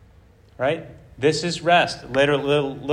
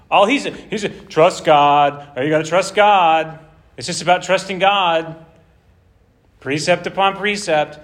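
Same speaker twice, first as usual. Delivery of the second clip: mocking. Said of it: "They're mocking his message".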